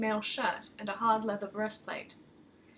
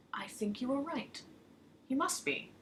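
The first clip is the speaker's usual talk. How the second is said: whispered, thoughtful agreement; hushed crone; 3 semitones higher, 7 dB quieter than usual. Acted. Crone to pretty woman, thoughtful whisper. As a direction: whisper it like a secret dawning.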